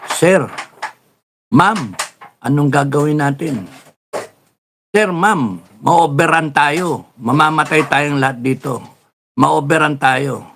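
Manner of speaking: urgent, pleading cry for orders; a soldier begging the officer what to do, mildly acted; panicked soldier shouting. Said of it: "sumisigaw na yung mga sundalo".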